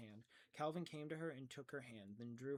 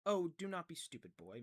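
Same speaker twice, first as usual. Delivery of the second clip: louder, higher scolding; 4 semitones higher, 7 dB louder than usual. A narrator's reading. Missus Whatsit scolding Calvin for being dense. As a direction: scold the boy sharply. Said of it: "Missus Whatsit scolded".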